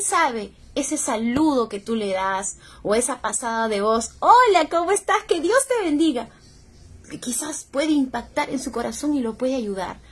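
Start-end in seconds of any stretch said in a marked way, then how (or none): 4.2-6.3 high, bright hello and blessing; friendly greeting. Shown as a demonstration. Her friendly greeting to a stranger, high and bright.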